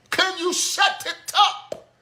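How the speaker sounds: slow, high, loud complaint; exasperated complaint about the noise; exasperated plea. Real, not acted. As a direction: drag it out, fed up. Fed up with screaming.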